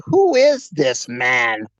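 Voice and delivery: slow, demanding German officer catchphrase; lightly voiced stern TV German; SS officer from Hogan's Heroes. SS officer questioning Klink, slow German officer voice. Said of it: "the guy from the S S who would always say".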